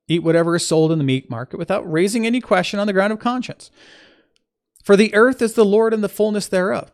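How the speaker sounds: emphatic reading of an epistle; scripture reading. Acted. Teacher reading Paul's letter to listeners, emphatic scripture reading. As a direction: read it out clearly, lifting key phrases.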